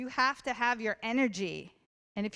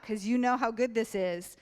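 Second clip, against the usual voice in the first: usual speaking voice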